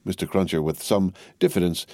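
ordinary delivery

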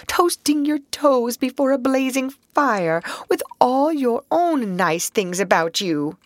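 high, tearful self-reproach; gloomy. Acted. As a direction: lament it, full of regret. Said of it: "his doleful self-reproaches".

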